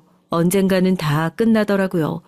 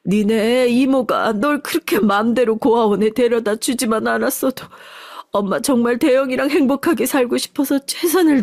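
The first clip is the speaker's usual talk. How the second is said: put-on higher, wailing old mother; sobbing mother; 4 semitones higher than usual. Mother to her found son, tearful wailing apology. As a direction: pour out years of grief. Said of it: "부둥켜 안고 오열하기".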